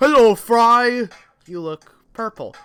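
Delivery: very loud, slow, drawn-out, high-pitched belting voice. Voicing a game line to Fry: Farnsworth impression. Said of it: "my best Farnsworth impression".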